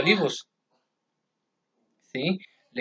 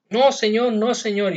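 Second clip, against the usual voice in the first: insistent denial; 6 semitones higher than usual. Acted. Peter denying Jesus' prediction.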